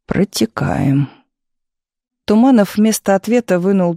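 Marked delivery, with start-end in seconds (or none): 0.1-1.1 meaningful. Acted. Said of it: "значительно сказал".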